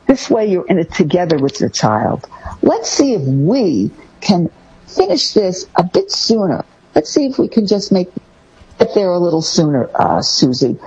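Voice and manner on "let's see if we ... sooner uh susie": gentle coaxing. Shown as a demonstration. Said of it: "you want to use the word we".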